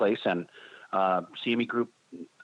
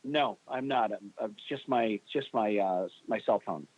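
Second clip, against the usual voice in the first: inside concrete bunker. Real, not acted. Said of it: "You sound like you're in a bunker somewhere".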